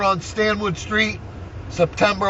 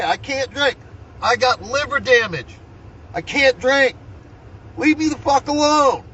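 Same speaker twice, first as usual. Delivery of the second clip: higher-pitched, fed-up mock rant at the officers; an old man telling the cops to leave him alone, exasperated and higher; retold angry outburst; 5 semitones higher than usual. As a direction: replay your own exasperated protest, pitched up. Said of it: "Yeah, I'm getting mad".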